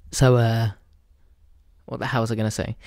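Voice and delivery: ordinary delivery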